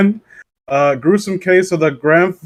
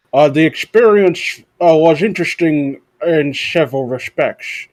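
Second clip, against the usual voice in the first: Gopher voice. Acted. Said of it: "You sound like Gopher from Winnie the Pooh".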